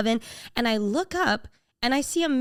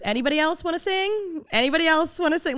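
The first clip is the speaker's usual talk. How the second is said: mock host call; 7 semitones higher than usual. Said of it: "And Jeremy goes".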